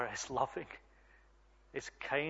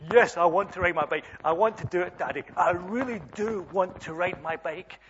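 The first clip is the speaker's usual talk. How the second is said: eager little girl, lightly acted; emphatic, louder opening as an eager kid; excited child; 3 semitones higher, 5 dB louder than usual. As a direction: imitate a keen child pleading with Daddy. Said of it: "She was really excited".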